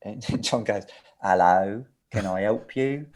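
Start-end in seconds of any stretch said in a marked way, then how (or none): 1.2-3.1 low-pitched, put-on helpful hello; mock-innocent phone greeting. John answering the engineer he locked out, feigning innocence. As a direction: play dumb, like a receptionist.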